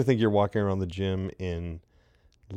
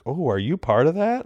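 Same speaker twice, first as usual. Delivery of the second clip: higher-pitched imitation of a curious stranger; voiced woman's question, pitched up; impressed woman; 7 semitones higher, 3 dB louder than usual. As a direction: lilt it up, mimicking an intrigued woman. Voicing an impressed woman at market.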